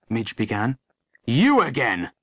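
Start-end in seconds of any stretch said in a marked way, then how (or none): 1.3-2.1 mildly raised exasperated bark; angry shout. A narrator's reading. Sergeant cutting off the interrupting boy, angry shout. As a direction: cry out in exasperation. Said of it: "shouted Sergeant Oates".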